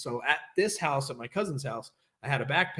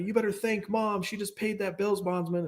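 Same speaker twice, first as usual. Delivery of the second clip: retold yelling; 6 semitones higher than usual. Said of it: "Yelling at me".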